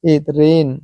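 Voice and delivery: रेन, vowel as in "day". Shown as a demonstration. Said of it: "ए की मात्रा से उच्चारण कर रहे हैं".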